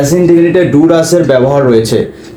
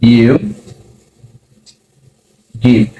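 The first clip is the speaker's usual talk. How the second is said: each word apart with long pauses; slow word by word; 3 semitones lower, much slower than usual. Shown as a demonstration. Teacher building the question for students, word by word. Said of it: "ডিডটা নিয়ে আসবো".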